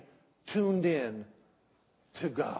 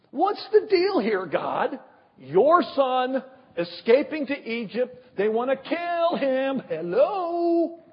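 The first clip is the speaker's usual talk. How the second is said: higher, louder indignant complaint to God; Joseph's mock-indignant outburst to God; exasperated Joseph; 4 semitones higher, 4 dB louder, slower than usual. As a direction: vent like a fed-up father on the run. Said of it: "I would have said".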